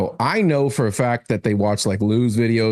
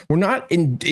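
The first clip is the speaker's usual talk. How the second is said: ordinary talk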